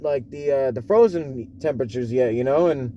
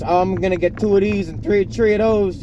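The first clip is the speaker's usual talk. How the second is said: put-on thickening New York accent, slightly raised; dad's New York accent; 3 semitones higher than usual. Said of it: "it gets stronger and stronger".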